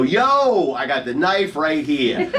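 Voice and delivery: hammed-up Italian-American wiseguy; Italian Sopranos-like voice. Shown as a demonstration. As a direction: play it like an Italian-American TV gangster. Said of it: "in your best Italian Sopranos-like voice".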